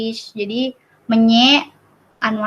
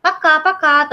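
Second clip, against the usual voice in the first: casual bye; 5 semitones higher than usual. Shown as a demonstration. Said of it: "terus aku bilang".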